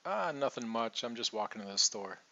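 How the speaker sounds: casual reply. Retold or imitated. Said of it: "then you might say".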